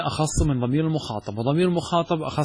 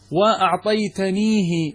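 slow example; 5 semitones higher, 3 dB louder, much slower than usual. Shown as a demonstration. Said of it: "example form".

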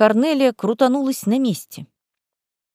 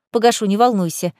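snide. Acted. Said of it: "ехидно ответила Лиза".

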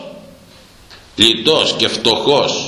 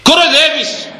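indignant cry. Real, not acted. Preacher rebuking those who mock the cross, outraged cry. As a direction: hurl the question back at them.

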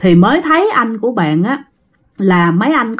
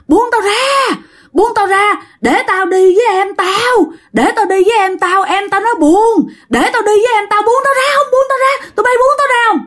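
creepy struggling plea; 10 semitones higher than usual. Retold or imitated. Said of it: "anh nói rằng á là".

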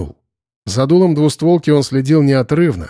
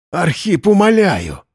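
higher, pained begging; moaned plea; 6 semitones higher, slower than usual. A narrator's reading. Semyon begging Arkhip, pained moan. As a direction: groan out the plea. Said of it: "простонал Семён Михайлович".

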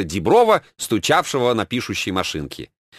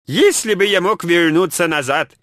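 печально; 7 semitones higher than usual. A narrator's reading. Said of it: "печально подумал Ленин".

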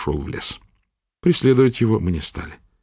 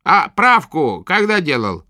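put-on gruff old witch; 7 semitones higher, slower than usual. A narrator's reading. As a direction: prod the patient roughly. Witch asks.

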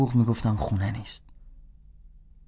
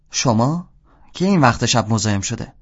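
annoyed woman; 3 dB louder than usual. Acted. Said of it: "اصلاً هم حال و حوصله نداشت".

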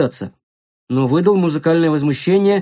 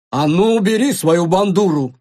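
mild acted yell at a boy; indignant shout. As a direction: scold him in a put-on lady's voice. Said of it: "крикнула Мите". (возмущённый окрик, вполсилы)

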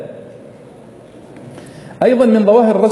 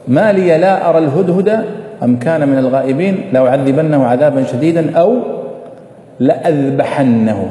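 Quran recitation. Shown as a demonstration. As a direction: recite the verse, stretch the last word. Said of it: "مثال ذلك". (تلاوة قرآنية بطيئة)

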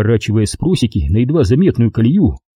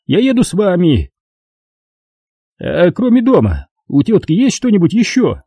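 high, smug official voice; pompous bureaucrat talking down; notary's voice; 7 semitones higher than usual. A narrator's reading. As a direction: play the fat notary, condescending and self-important.

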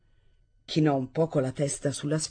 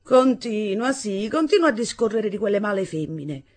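mocking; 5 semitones higher, 4 dB louder than usual. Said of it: "esclamò beffardamente".

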